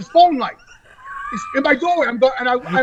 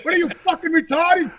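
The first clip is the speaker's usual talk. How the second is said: raised, incredulous outburst; re-enacted angry tirade, pitched up; exasperated rant; 3 semitones higher than usual. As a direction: rail at the roommate in disbelief. Retelling his outburst at roommate.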